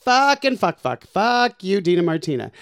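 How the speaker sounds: high, loud mock rage at a friend; mock furious cursing. Drag queen cursing out her friend, mock furious. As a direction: spit the curses out in fake fury. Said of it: "I get so mad".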